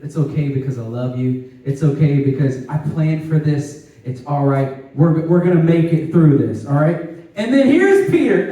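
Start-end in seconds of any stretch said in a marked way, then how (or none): 0.0-7.0 lower, gentle reassurance as Jesus; calm a frightened friend with love; loving reassurance. Retold or imitated. Jesus reassuring the disciples, gentle and loving. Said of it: "in so much love and grace and mercy".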